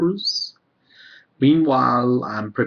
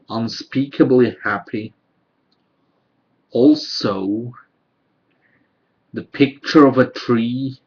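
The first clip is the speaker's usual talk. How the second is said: poetry reading; 4 dB louder than usual. Acted. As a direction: read it as verse, phrase by phrase. Reads own poems aloud.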